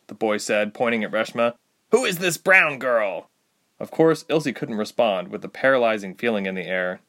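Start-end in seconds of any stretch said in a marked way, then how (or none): 1.9-3.3 put-on young soldier. Young soldier questions sternly.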